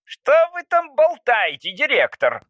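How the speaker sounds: student cutting in on director; Anteater interrupting. Acted. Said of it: "вмешался Муравьед". (высокий грубый окрик)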